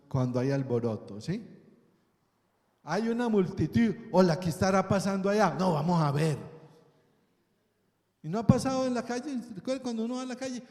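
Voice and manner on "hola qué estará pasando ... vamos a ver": lightly voiced, hurried bystander; curious onlooker. Bystander wondering about the commotion over there, lightly acted curiosity. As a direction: play a nosy passer-by, quick words.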